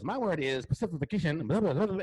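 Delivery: a hint of Don King's bluster, building up; Don King impression. Retelling Ari Spears as Don King at the audition, mild bluster. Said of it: "doing the Don King thing".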